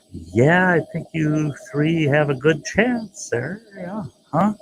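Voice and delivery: whispered then rising, sly and teasing. Retold or imitated. Driver slyly teasing the girls in back, whispered and rising. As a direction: tease them with a sly whisper.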